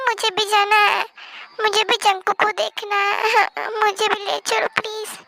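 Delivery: tearful pleading. Acted. Pleading to go, crying.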